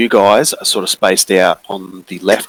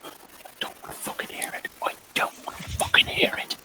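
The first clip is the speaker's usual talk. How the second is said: whisper; 14 dB quieter than usual. Acted. Whispering while hiding from monster.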